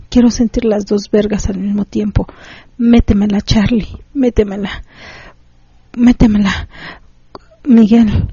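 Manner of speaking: pleading, breathy-free lightly acted lover's voice; acted erotic reading. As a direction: read it as the woman in the story, begging. Reads a listener's erotic story. (lectura erótica actuada, suplicando)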